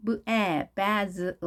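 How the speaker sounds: "베즐" split into b, short a, z, l; sound-by-sound demo. Shown as a demonstration. Teacher assembling basil for learners, sound-by-sound "베즐". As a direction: build "베즐" in pieces with a buzzing z. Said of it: "즈 발음인데요".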